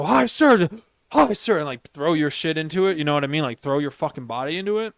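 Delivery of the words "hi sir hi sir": a lighter high greeting; weak greeting. Shown as a demonstration. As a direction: say it without chest power. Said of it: "Not just go".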